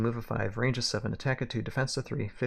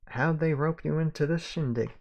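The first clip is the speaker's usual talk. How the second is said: slightly higher Southern cowboy voice; Southern accent; 4 semitones higher than usual. Acted. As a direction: ask it with a light Southern twang. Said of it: "I can do the accent".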